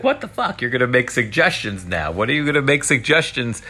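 incredulous outburst. Retold or imitated. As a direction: freak out at the idea, pitch jumping up. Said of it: "you're like".

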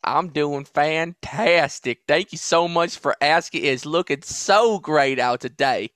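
put-on slow, drawn-out Southern accent. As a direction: stretch it into a mock Southern drawl. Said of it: "I like your Southern accent".

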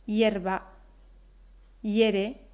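"hierba" y "hiere" dichos "yerba", "yere"; hie como ye. Shown as a demonstration. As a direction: empieza "hierba" y "hiere" con ye. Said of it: "escuchamos ese sonido ye". ("hie" pronunciado "ye")

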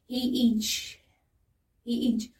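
stuck on the word, stopping short; freezing mid-word. Retold or imitated. Comic retelling of a botched story on stage, frozen mid-word. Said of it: "I froze on stage".

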